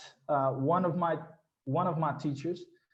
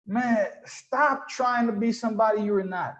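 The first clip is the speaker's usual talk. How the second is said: higher-pitched mock scolding; imitating scolding followers; 5 semitones higher than usual. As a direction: call him out like a follower. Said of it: "gonna be like this".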